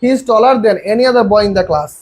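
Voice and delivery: each word read out slowly for the class; slow, clear teacher reading; slow dictation. Shown as a demonstration. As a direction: spell it out for students. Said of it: "আমরা সবগুলোকে পড়ি".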